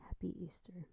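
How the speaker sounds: hushed Happy Easter, voice unvoiced; whisper. Real, not acted. Greeting her loves again in a whisper.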